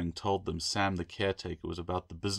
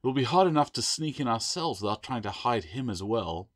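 exasperated; 5 semitones higher, 5 dB louder than usual. Acted. Adrian arguing, panting.

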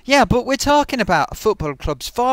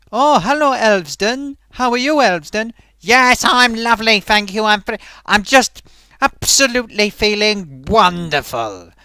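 put-on puppet voice; 3 semitones higher, 5 dB louder than usual. Puppet Elvesden introduces himself to Gloaty, put-on voice. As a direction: play a cheery puppet, loud and bright.

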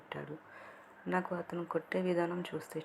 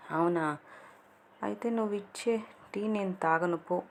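higher, mock-sulky tease; playfully; 4 semitones higher, 4 dB louder than usual. A narrator's reading. Sravya mock-refusing Deepak's tea, playful sulk. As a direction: pretend to refuse, just joking. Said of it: "అని సరదాగా అన్నాను".

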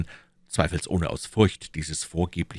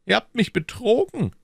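higher, stern accusation; stern Cardinal; 4 dB louder than usual. Acted. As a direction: reproach the prisoner sternly. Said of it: "sprach der Kardinal mit Strenge". (der Kardinal, streng)

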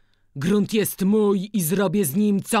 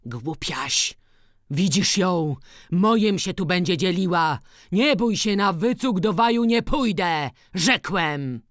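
scornful opening rising into higher insistence; angry refusal; 5 semitones higher, 4 dB louder than usual. A narrator's reading. Father refusing to share his land, angrily. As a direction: rebuff her and close the matter. Old man refuses in acted quarrel.

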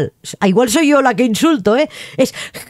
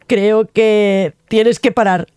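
slow; slower than usual. Acted. Personaje pide parar.

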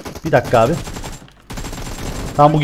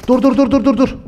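excited; 10 semitones higher than usual. Real, not acted. Sudden danger in the game.

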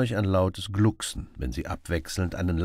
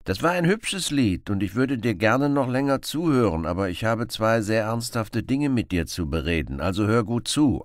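lively Robin Hood; 5 semitones higher, 4 dB louder than usual. Acted. Robin voiced.

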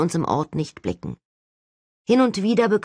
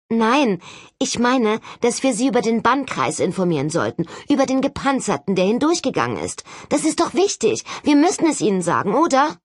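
urgent insistence; 6 semitones higher than usual. Acted. Holly urges telling the authorities.

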